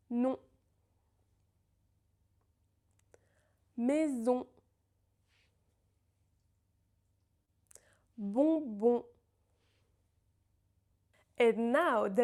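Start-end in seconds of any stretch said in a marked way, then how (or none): 0.1-9.0 Non, Maison, Bonbon each said clearly with pauses; slow clear model words for repeating; model pronunciation. Shown as a demonstration. Teacher models on words for students, clear and slow. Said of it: "you can repeat my pronunciation".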